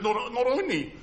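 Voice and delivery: voicing God. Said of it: "God says to us".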